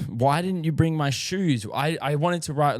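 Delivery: lightly voiced whining little girl; whiny toddler.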